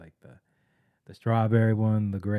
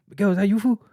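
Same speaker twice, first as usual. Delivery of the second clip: higher, louder cholo coworker calling out; 11 semitones higher, 6 dB louder, faster than usual. Retold or imitated. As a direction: call across the stalls like a cholo buddy. Coworker voiced in story.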